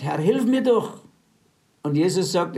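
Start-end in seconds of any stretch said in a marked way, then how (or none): 0.0-1.0 higher, pleading woman's voice; lightly voiced begging mother. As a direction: beg like the desperate mother. Retold woman begging Jesus.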